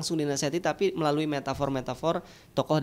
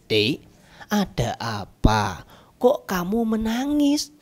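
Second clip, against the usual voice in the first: father voice; 4 semitones higher, 4 dB louder, much slower than usual. Acted. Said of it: "bapaknya bilang".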